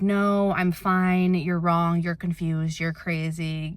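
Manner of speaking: imitating a dad who won't hear it; dad's dismissive denial. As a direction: brush her off like the stubborn dad. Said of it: "he was just like".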